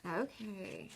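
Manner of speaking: whispered okay; soft breath of an okay. Shown as a demonstration. Soft wrap-up.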